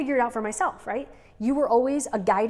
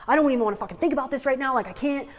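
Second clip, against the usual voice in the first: mock frustration; 4 semitones higher, 3 dB louder, faster than usual. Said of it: "you were getting so frustrated".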